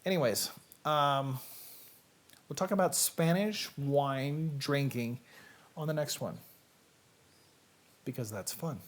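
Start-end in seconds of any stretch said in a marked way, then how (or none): 2.5-6.4 slow talk. Shown as a demonstration. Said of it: "I gotta talk real slow".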